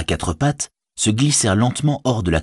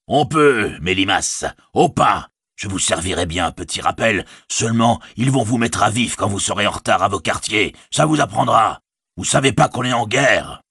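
voix d'orque moqueuse et cinglante; nargue-les avec cruauté; orque narquois; 2 semitones higher than usual. Acted. L'orque nargue les hobbits. (orque qui raille ses esclaves)

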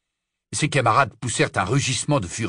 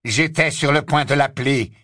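exclaiming; 3 semitones higher, 3 dB louder than usual. Acted. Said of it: "s'exclama Lucius".

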